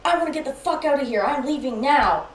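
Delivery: high, quick agitated imitation; retold angry swearing. Boyfriend demanding to leave while half asleep, agitated. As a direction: rush it out high and irate. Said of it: "swearing at me".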